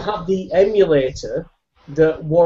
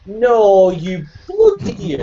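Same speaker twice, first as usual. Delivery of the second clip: loud, higher, telling off; exasperated shout; 5 semitones higher, 3 dB louder than usual. Real, not acted. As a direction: yell at a friend. Shouting down a joke answer.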